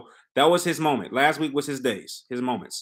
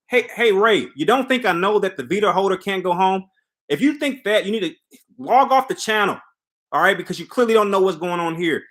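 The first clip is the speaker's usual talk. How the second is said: irritated comeback; 5 semitones higher, 3 dB louder than usual. Real, not acted. Snapping back at a commenter.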